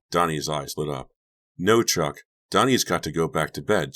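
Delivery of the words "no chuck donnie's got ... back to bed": insisting. Acted. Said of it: "Jenny insisted".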